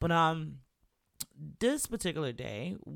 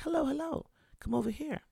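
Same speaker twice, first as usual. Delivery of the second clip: high-pitched imitation of an older English gentleman; proper English accent; 12 semitones higher than usual. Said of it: "Had an English accent, like, very proper".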